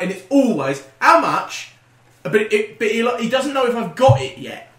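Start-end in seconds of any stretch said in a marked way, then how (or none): 1.0-1.7 louder higher How much; gruff old customer. Retold or imitated. Deaf customer at the counter, blunt question. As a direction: bark it like the deaf old man.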